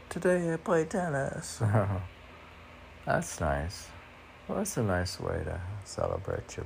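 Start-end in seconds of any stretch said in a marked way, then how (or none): 0.1-1.6 higher, light playful voice for the line; lighthearted quote. Retold or imitated. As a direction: toss it off lightly and cheerfully. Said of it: "lightened it up and said".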